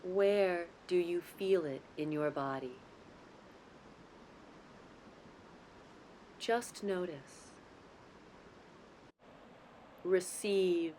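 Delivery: calm, unhurried guidance with long pauses between phrases; guided meditation. Real, not acted. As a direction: lead them gently into the breath, lingering on key words. Leads guided breathing meditation.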